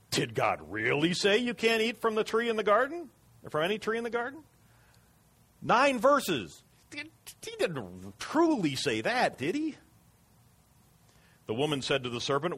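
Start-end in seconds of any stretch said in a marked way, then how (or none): 0.1-4.4 high, sneaky serpent voice, speeding up at the end; sly serpent. Acted. Serpent to the woman, high and wheedling. 6.9-9.7 high, slow, sneering tease; mocking serpent. Serpent needling the woman, slow and high.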